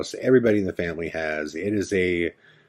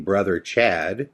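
slow "Brother Chad" with a lifted end, lightly voiced; a hint of the little sister calling "Brother Chad"; Katie's way of saying it; slower than usual. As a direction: draw out "Brother Chad" gently, rising on "Chad". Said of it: "that was her way of saying".

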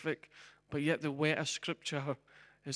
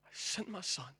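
quiet God; 3 semitones higher, 6 dB quieter than usual. Acted. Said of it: "And God said".

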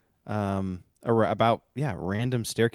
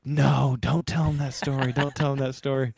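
protesting aunt; 5 semitones higher than usual. Retold or imitated. Aunt objects to scary story.

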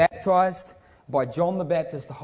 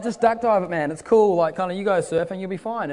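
higher, louder, breezy mock reassurance; carefree daredevil friend; 4 semitones higher, 5 dB louder than usual. Reckless friend John urging him into rapids, breezy and loud. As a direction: egg him on, no worries mate. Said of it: "he's like".

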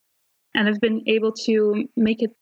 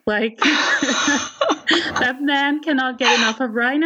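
laughing; slower than usual. Real, not acted. Gushing about favourite character.

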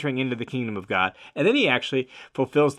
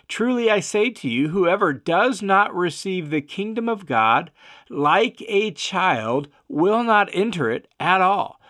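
higher-pitched, emphatic scripture reading; 5 semitones higher than usual. A narrator's reading. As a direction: read it as a solemn, stressed declaration. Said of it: "Jesus is doubly emphatic about this".

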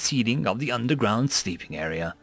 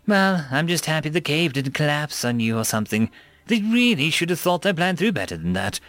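complaining; 3 semitones higher than usual. Acted. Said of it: "she complained".

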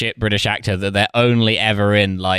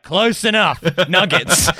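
high, breezy don't-care voice; careless shrug; 8 semitones higher, slower than usual. Retold or imitated. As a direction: toss it off like it doesn't matter. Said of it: "and I was like".

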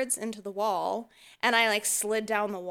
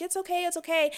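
mock flustered okay; 8 semitones higher, faster than usual. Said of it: "And I'm like".

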